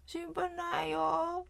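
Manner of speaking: put-on English-accented Japanese. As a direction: draw it out with a mock English accent. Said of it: "英語なまりの日本語".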